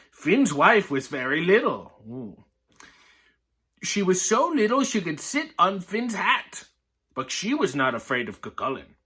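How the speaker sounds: lively read-aloud voice, characters lightly voiced; story reading. Reading a picture book to viewers, lively storytelling.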